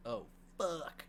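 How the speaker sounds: a touch of shock as she realizes what's happening; dawning realization. Retold or imitated. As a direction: let "Oh, fuck" land as a sudden realization, lightly acted. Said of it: "So she's like".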